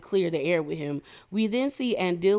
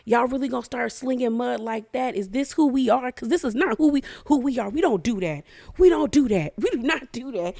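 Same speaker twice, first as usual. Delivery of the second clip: exasperated outburst; 4 semitones higher than usual. Retold or imitated. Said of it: "Dile was done".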